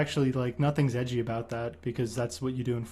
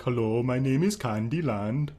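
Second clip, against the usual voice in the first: 1 Canute impression; slower than usual. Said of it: "when I did it on the show, I was like".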